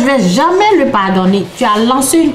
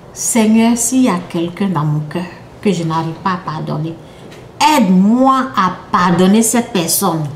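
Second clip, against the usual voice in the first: demo prayer; 3 semitones lower than usual. Shown as a demonstration. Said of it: "tu fais cette prière-là".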